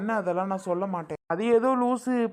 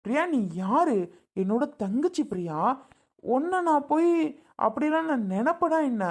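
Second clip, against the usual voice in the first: high, swooping, incredulous appeal; pleading protest; 4 semitones higher than usual. Acted. Brother insisting he never thought that, pleading. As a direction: plead innocence in a raised pitch. Brother reassures accusing sister.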